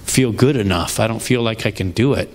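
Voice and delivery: low, hesitant retold protest; reluctant self-doubt. Retold reluctant reply to God.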